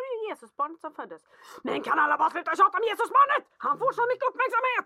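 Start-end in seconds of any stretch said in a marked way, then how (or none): 1.6-4.9 high, loud mock whine of a jealous child; whiny kid. Son complaining about baby Jesus. (gnällig barnröst, högt och högljutt)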